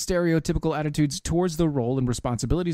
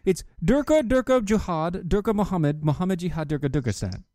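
mock Iranian accent. Shown as a demonstration. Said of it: "how do you not do the accent right".

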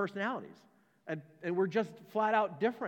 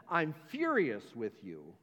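quoted accusation; 4 semitones lower, slower than usual. Retold or imitated. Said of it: "comes to you and says".

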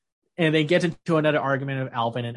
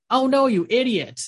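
much higher, teasing mock concern; mock dismay; 9 semitones higher, 4 dB louder than usual. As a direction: play up the fake alarm at a fool. Acting out Carla's mocking reply.

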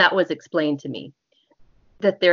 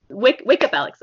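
wake-up call; 4 semitones higher than usual. Shown as a demonstration. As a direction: snap them awake. Waking the subject loudly.

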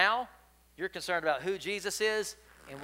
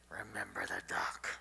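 whisper; 7 semitones lower, 8 dB quieter than usual. A narrator's reading. Sister reminds her brother of his secret, whispering. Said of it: "And then she whispered".

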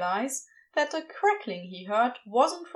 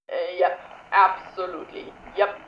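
flustered Crowley; 5 semitones lower, 4 dB louder than usual. A narrator's reading.

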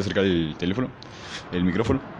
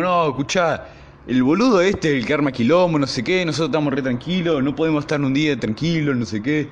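1 retold heated protest; 5 semitones higher, 3 dB louder than usual. Friends arguing back in class.

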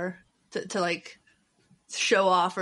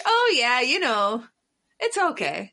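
sweet Midwest voice; 3 semitones higher, slower than usual. Retold or imitated. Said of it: "my Midwest comes out when I'm trying to, like, seem sweet".

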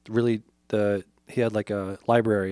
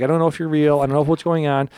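mock freaking out; 5 semitones higher, 6 dB louder than usual. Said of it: "he's freaking out".

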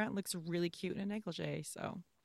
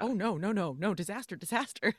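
raised, flustered repetition; mock panic; 3 semitones higher, 4 dB louder than usual. Hero backs away from the kiss, mock panic. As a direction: imitate a man backing out in alarm.

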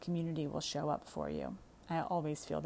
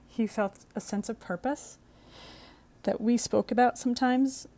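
blubbering; 2 semitones higher, 4 dB louder than usual. Real, not acted. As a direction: push through real tears. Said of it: "Sorry, I'm crying".

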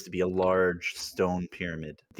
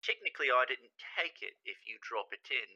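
mischievous grin; 5 semitones higher, 7 dB quieter than usual. Acted. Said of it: "this super devilish grin across his face".

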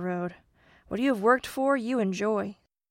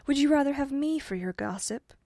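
higher-pitched lady's question; Dame Fortune; 7 semitones higher, 3 dB louder than usual. A narrator's reading. Dame Fortune offers herself as godparent, higher-pitched. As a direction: lift the voice for a coaxing offer.

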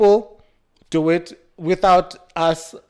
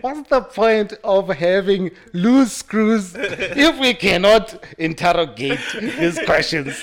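laughing; 3 semitones higher, slower than usual. Real, not acted. Laughing through slow question.

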